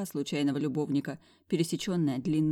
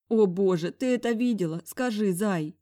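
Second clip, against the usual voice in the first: groaning; 4 semitones higher, 3 dB louder than usual. Acted. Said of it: "простонала я".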